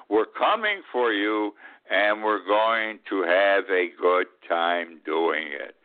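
slow, deliberate mock threat; slow menacing quote. Old man mimicking Donald Junior threatening the Capitol, slow menace. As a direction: let each word land like a threat. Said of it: "He was talking to people in the Capitol".

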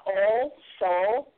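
drawn-out Appalachian vowels on all, so, tall. Shown as a demonstration. Showing the teachers how her Appalachian talk sounded. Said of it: "say unkind things about the way that we talked".

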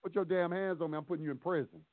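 low warning. Shown as a demonstration. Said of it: "You tell them just like that".

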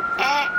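a tiny grumble before the bite; imitating the cat's mild warning noise; little cat warning. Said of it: "nothing big, nothing strong, just a little".

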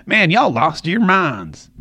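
slow, lightly imitated drawl; Matthew McConaughey. Host voicing what the actor won't say, mock drawl. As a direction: stretch it out like the laid-back actor. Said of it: "too Matthew McConaughey-ish to say".

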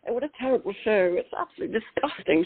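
lightly voiced prim English outrage; a hint of a scandalised Brit; outraged English viewer. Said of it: "people in England will be going".

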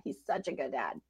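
tender hush. Real, not acted. Preacher assuring listeners God cares, hushed and tender. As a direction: say it like a lullaby. Tender repetition, lower and softer.

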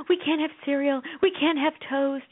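slow, drawn-out mock complaint. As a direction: lightly imitate disappointed children. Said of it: "So we went from having".

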